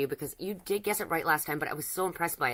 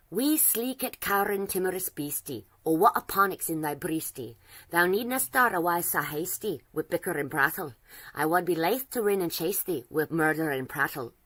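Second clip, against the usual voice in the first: Burns recited in broad Scots, louder, slow; thick Scottish accent; 5 dB louder than usual. Acted. Reciting a Burns poem for Nines to guess, thick Scottish accent. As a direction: roll it out in a thick Scottish accent, whispered at the start. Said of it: "a thick accent".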